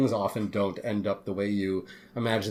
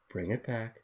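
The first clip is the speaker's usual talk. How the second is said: quiet director coaching; 8 dB quieter than usual. Retold or imitated. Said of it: "she would be like".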